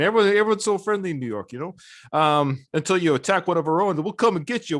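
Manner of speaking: mock tough-city pride in a New York accent. Host playing a proud New Yorker, mock New York accent. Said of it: "I love that New York accent".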